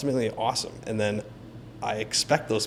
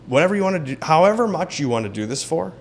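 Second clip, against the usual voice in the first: airy offhand offer; 5 semitones higher, 4 dB louder than usual. Retold or imitated. Mock offer to seller, voiced.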